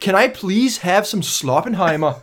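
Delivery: put-on slow Danish-accented English. Co-host jokes in a slow Danish accent. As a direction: ask politely like a Danish scientist. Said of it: "good Danish accent".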